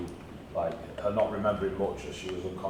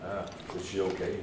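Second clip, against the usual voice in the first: halting foreign helper; broken-English stranger voice; 6 dB quieter than usual. Acted. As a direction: stumble through the words kindly. NPC character voice, broken speech.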